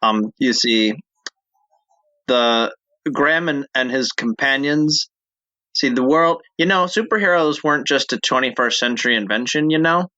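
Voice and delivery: lightly voiced dumb guy. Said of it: "the dumb guy voice".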